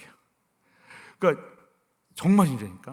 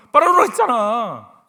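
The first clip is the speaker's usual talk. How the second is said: loud, higher annoyed retort; irritated snap; 4 semitones higher, 7 dB louder than usual. Retold or imitated. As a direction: snap back like an annoyed son. Mock nagging son. (짜증 섞인 큰 목소리)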